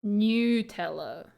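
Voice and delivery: Nutella slow with a "nyoo" start; official Nutella pronunciation. Shown as a demonstration. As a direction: say Nutella like the makers, new-TELL-a. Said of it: "the makers of Nutella say".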